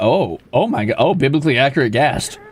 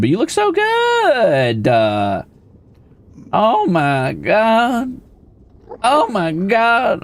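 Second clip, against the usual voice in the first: swooning; 3 semitones higher, slower than usual. Pretend. Streamer gushing at the handsome mob, swooning slow. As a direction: melt over him slowly.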